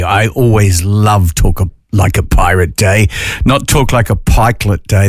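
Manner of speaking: lightly put-on pirate accent; pirate talk. Host warning listeners on pirate day, mock pirate voice. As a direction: play at being a pirate letting someone off. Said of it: "gonna have to stop because".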